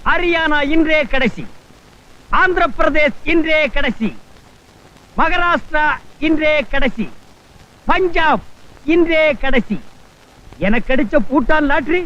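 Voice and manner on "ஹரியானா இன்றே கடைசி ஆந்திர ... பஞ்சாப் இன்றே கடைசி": lottery hawker call. Acted. Selling state lotteries on street.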